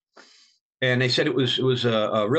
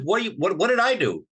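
startled protest; 6 semitones higher than usual. Retold or imitated. Confronted by furious Frankie.

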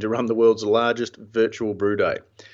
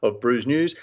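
sponsor ad read; 2 semitones higher than usual. Acted. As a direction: read it like a polished on-air sponsor spot. Reads sponsor message.

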